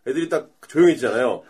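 usual speaking voice

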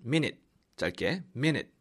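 "minute" said short as MIN-it, not mi-ni-teu; short English "minute"; pron minute. Shown as a demonstration. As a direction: clip "minute" to two short syllables. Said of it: "미니트가 아니죠".

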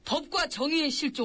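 earnest, declaimed list of grievances; impassioned acting. Aide lists the nation's ills to the king, impassioned. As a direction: declaim it with dramatic conviction. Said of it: "격정적으로 연기를 하는지".

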